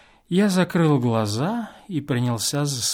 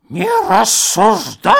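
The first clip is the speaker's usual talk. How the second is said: put-on loud, higher old man's shout; 8 semitones higher, 8 dB louder than usual. A narrator's reading. Old man repeats his order to the guest, loud. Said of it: "крикнул старческий голосок".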